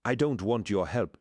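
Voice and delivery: a touch of a rejecting cry. Acted. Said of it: "she cried".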